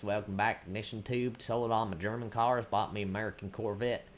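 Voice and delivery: lightly put-on Florida man voice; playfully imitating a Florida man; mock Florida man. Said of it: "I will not become a Florida man".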